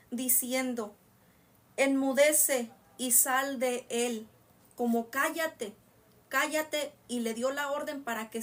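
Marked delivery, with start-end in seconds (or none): 1.8-4.3 loud, slow command; reprensión. Acted. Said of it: "le riñó". 5.1-6.9 orden con autoridad. Acted. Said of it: "con autoridad".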